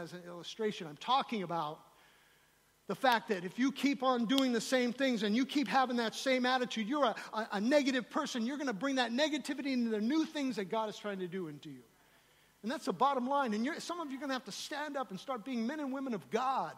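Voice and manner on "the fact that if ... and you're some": urgent, driving sermon delivery; emphatic preaching. Real, not acted. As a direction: press the warning on the congregation. Preaching with rising force.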